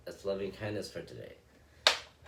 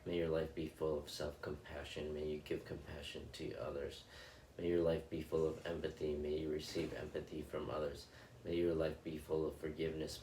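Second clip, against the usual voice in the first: guided loving-kindness meditation. Acted. Meditation host blessing her viewers in a calm, measured recitation. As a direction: bless each listener gently, line by line.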